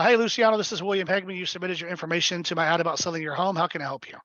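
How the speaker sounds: quick and easy call opener; shorter version of the pitch. Shown as a demonstration. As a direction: keep it brief and friendly. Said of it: "Typically I would go".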